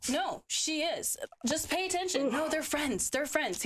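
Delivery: high, insistent back-and-forth; retold argument. Replaying the argument with a boyfriend, high and insistent.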